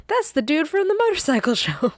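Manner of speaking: high-pitched starstruck onlooker; excited passerby. Retold or imitated. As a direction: imitate someone excitedly spotting a celebrity. Excited passerby spots a supposed celebrity.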